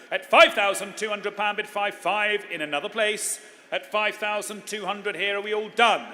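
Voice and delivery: building to a loud final call; auctioneer. Acted. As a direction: drive it home and sell it. Auctioneer closing the sale.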